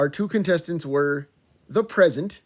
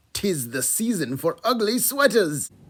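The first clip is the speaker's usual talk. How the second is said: clumsy, bad put-on British accent; 3 semitones higher than usual. Opening a school's Tiger Talk announcement with a bad British accent attempt. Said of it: "that bad attempt at a British accent".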